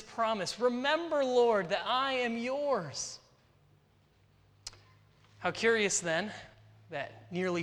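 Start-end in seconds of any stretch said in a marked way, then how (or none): 0.6-3.2 higher, earnest plea to the Lord; a mild, imitated plea to be remembered; pleading prayer. David begging God to remember his promise, pleading higher. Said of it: "he's pleading with God".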